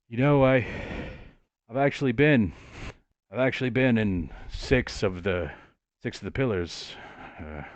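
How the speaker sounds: wistful reminiscence, haltingly voiced with long pauses. Man remembering his lost city to a visitor, wistful.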